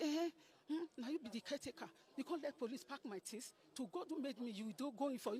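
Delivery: a touch of indignant quarrel; retold argument. Angry quarrel with the boy.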